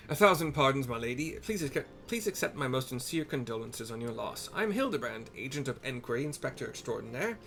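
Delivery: lightly voiced grand inspector, pleased with himself; pompous detective. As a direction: play the proud sleuth, a little grand. Hildebrand consoles mother.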